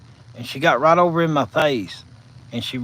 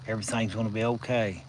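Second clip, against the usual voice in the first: soft, gentle reassurance, a bit softer; gentle sweet voice; 3 semitones lower, 5 dB quieter than usual. Retold or imitated. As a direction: soothe him like a kind nurse at the bedside. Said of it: "in just a gentle, sweet voice".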